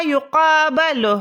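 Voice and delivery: each syllable of یقابل drawn out slowly; slow dictation. Shown as a demonstration. Teacher to students, slowly dictating the word. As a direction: spell یقابل out slowly for the class. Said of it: "وہ کیا بنے گا؟".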